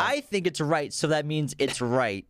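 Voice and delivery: smug know-it-all troll; internet troll. Pretend. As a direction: play a smug internet commenter. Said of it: "The troll voice".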